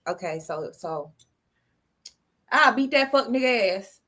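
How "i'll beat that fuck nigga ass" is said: Florida slang with added swag; swaggering Florida accent. Shown as a demonstration. Showing co-host a Florida accent with swag. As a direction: try a less proper Florida accent. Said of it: "put a little bit more swag in your voice".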